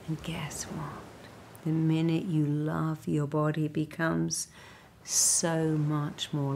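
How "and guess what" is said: soft whispered aside. Acted. Confiding to the listener, whispered. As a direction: lean in and whisper it.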